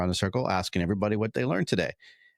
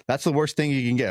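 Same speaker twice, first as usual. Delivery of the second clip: laughing; 6 semitones higher, 3 dB louder than usual. Real, not acted. Laughing over blank student answers.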